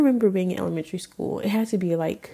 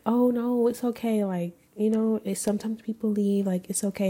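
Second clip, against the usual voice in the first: soft, soothing self-talk, a touch higher; gently comforting herself; 3 semitones higher, 3 dB quieter than usual. Retold or imitated. Talking to her hurt inner self, gentle and soothing. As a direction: reassure a hurting inner child tenderly. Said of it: "I literally have to talk to myself like that".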